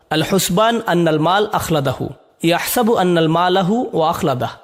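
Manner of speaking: measured recitation of Arabic verses; Quranic recitation. Shown as a demonstration. Teacher reciting verses to his students.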